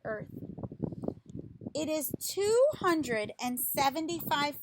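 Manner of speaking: slow, lively picture-book reading voice; reading to children. Acted. Reading a tree picture book to children, lively storytime voice. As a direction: read it out like a storytime for little kids.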